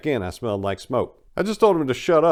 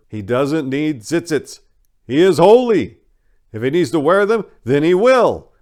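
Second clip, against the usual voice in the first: put-on a forceful old rabbi stepping in; emphatic elder rabbi; 7 semitones higher, 9 dB louder than usual. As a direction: defend him with firm authority. Elder rabbi defends narrator.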